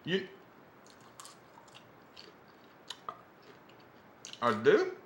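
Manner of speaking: put-on American Southern accent. Actor playing an American answering a ma'am, in a Southern accent. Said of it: "putting on a Southern accent".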